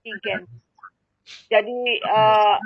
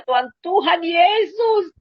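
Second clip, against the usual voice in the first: raised, tearful cry to Jesus, slowed at the start; crying out to God; 3 semitones higher than usual. Retold or imitated. Praying for her dying sister, crying out in a high, tearful voice. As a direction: plead with God through sobs, voice pitched up. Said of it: "saya nangis terseduh-seduh, saya teriak-teriak".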